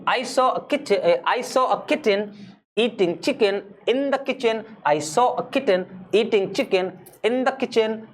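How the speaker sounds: very slow, repeated five times; slow five-times practice drill; slow repetition. Shown as a demonstration. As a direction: drill it slowly over and over. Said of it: "हो गया पांच बार".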